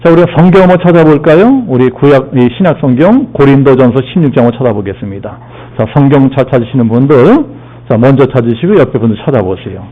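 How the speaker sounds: ordinary delivery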